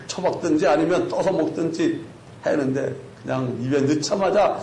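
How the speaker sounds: ordinary talk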